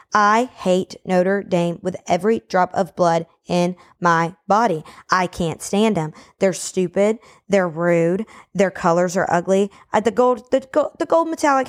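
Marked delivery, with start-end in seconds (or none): 0.1-9.7 real seething anger. Real, not acted. Sports fan venting about a hated rival team, angry. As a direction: spell out your hatred deliberately. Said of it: "I'm getting so angry".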